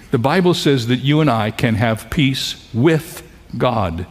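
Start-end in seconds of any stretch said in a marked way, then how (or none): 2.1-4.1 "with" set apart and stressed before "God". Real, not acted. Preacher points congregation to a key word, stressing "with". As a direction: lean on the word "with", pausing around it. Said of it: "Underline the word with".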